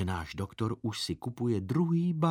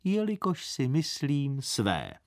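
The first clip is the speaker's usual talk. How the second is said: even thinner voice; 2 semitones higher than usual. Acted. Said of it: "teta pravila ještě tenčím hlasem".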